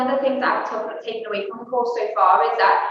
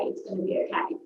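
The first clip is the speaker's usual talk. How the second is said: gentle reassurance; 2 semitones lower, 7 dB quieter than usual. Shown as a demonstration. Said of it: "I would say that".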